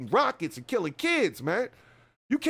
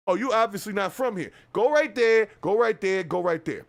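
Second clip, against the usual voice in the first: New Yorker directions; 4 dB louder than usual. Retold or imitated. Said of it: "That's how New Yorkers talk".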